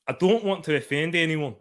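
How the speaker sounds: muddled Glasgow-Edinburgh Scottish accent; mixed Scottish accent. Shown as a demonstration. Streamer trying accents on request, muddled Scottish accent. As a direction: attempt a mishmash of Scottish accents. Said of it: "I'm mixing Glaswegian and Ed".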